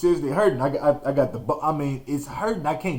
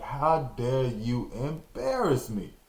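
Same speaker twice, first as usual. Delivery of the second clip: stern father; 6 dB quieter, slower than usual. Retold or imitated. Father's silent glare voiced.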